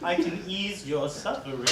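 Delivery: creepy whispering clown. Acted.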